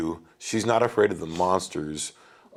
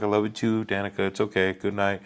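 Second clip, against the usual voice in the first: tender reassurance. Retold or imitated. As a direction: re-enact gently settling a sleepy child. Soothes waking daughter at night, retold.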